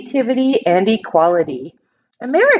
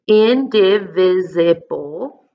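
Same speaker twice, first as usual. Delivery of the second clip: slow sounding out; 2 semitones lower, much slower than usual. Shown as a demonstration. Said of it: "that's kind of a hard word".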